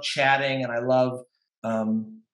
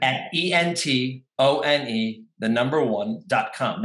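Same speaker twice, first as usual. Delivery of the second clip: spelled out slowly letter by letter; careful slow spelling of an email; slow dictation; 2 semitones lower than usual. Shown as a demonstration. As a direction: read the address slowly so it can be written down. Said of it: "so to answer your question".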